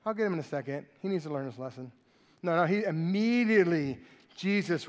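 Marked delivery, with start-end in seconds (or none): 0.0-1.9 lazy indifference. Pretend. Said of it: "be like".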